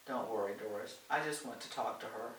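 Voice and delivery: calm her worries softly; reassuring. Acted. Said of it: "Helen assured her".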